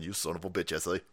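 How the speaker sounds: low, soft mock Latino grumble; mock Latino accent. Host voicing the Salt Queen's cursing, mock Latino accent. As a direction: grumble under your breath in a put-on Latino accent. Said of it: "Why do I keep doing that accent for the Salt Queen?".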